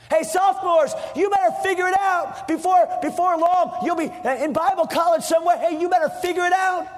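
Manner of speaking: rally the sophomores to act; urgent exhortation. Real, not acted. Preacher exhorts students.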